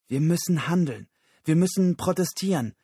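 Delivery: high, loud call to action; rally the others with urgency; urgent rallying. Acted. Susan ruft zum Handeln auf. (drängender, lauter Aufruf)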